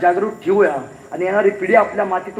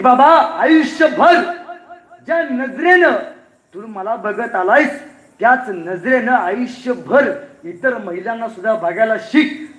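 tender sister's plea; 2 semitones higher, slower than usual. Acted. Sister asking her brother for a boon, tender and slow. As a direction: ask it gently, slowly, from the heart.

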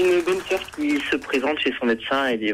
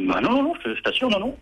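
defensive priest; 9 semitones higher, faster than usual. Acted. Priest insisting he's not grown.

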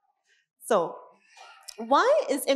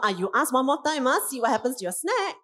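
put-on parent threatening a child over a snack; raised voice threat; 4 semitones higher than usual. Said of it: "when we raise our voice".

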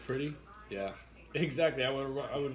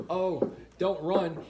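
higher, louder, slow warning call; owner's warning; 6 semitones higher, 6 dB louder, slower than usual. Retold or imitated. Owner warning the fleeing delivery guy, slow and loud. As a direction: call out slowly to stop him running. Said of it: "The owner goes".

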